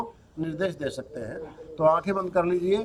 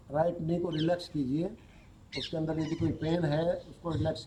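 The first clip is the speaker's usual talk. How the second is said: yoga nidra instructor's voice, softer than explaining; guided relaxation; 7 dB quieter than usual. Acted. Teacher leads students through yoga nidra, guided relaxation. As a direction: guide the body into rest, with long pauses.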